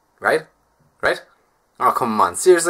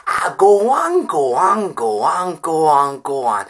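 higher, slow pleading "go on" that sinks; lightly voiced housekeeper coaxing; Mrs Doyle; 4 semitones higher, 6 dB louder, much slower than usual. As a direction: coax him, start high then wear down. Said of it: "bad Father Ted impression".

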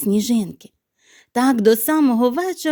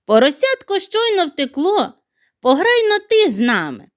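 playful teasing; 7 semitones higher, 3 dB louder than usual. Acted. Snowflake teasing hedgehog.

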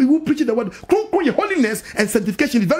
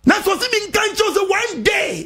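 fiery preaching; 5 semitones higher than usual. Real, not acted. Pastor preaching to the congregation on Job, at full force. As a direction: preach it hard and rising to the crowd.

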